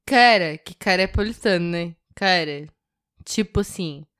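ordinary talk

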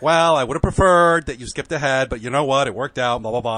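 lightly imitated director, starting loud and settling; a hint of the man's way of talking, emphatic at first; George C. Wolfe impression. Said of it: "that's sort of how he talks".

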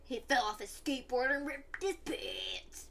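slow, secretive whisper. Real, not acted. Cohost whispering his mishap to viewers.

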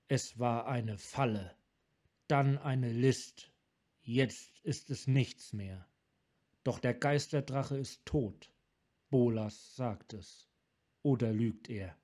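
a broken man forcing the words out; tormented Sarkan. Acted. Sarkan, haunted by Bolas.

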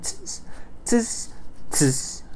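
short hissed monkey tsks; monkey "tss". A narrator's reading. Monkeys mocking the peddler with sharp hissed tss sounds. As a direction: imitate monkeys going "tss". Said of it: "stamped ... back at him and said".

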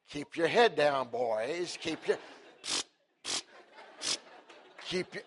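loud, slow drill call to keep down; barking orders over gunfire; instructor's bark. Retold or imitated. Church camp instructor barking at the boys.

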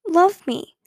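put-on child's pained insistence; fierce with hurt. A narrator's reading. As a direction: demand it fiercely from a hurt place. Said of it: "Her voice was fierce with hurt".

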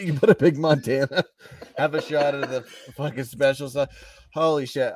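real laughter breaking into the words; cracking up mid-sentence; laughing hard. Real, not acted. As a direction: talk through a laughing fit. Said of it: "I'm laughing so hard".

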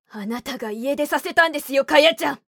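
sharp, loud accusation; 鋭い言葉. Acted. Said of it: "こんな鋭い言葉をかや子に吐いた". (鋭く責めるように)

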